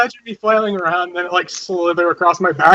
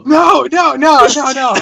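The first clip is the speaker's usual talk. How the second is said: protesting; 5 semitones higher, 4 dB louder than usual. Acted. Protecting pet snake.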